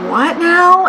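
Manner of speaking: high, loud startled what now; startled question to Dana; surprised. Retold or imitated. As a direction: blurt it out, caught off guard. Confused by sudden remark.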